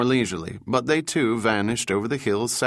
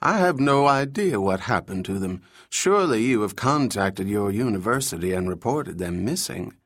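pinched nasal voice. Acted. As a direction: squeeze it through the nose, fussy. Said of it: "made his voice pinched and nasally".

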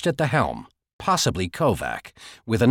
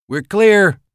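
radio voice; 9 semitones higher, 8 dB louder than usual. Acted. Radio call from boat.

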